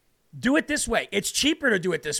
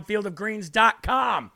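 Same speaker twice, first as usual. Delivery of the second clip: slow, spelled-out web address; slow ad read; slower than usual. Shown as a demonstration. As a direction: draw out each word of the address. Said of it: "repeats address slower".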